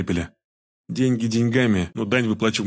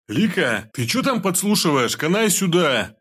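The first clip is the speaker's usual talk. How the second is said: much higher, slow yell to the next room; calling out; 8 semitones higher, slower than usual. A narrator's reading. Pelmen calls his wife out of the kitchen, rough yell. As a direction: holler at the wife behind the door. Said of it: "крикнул Пельмень".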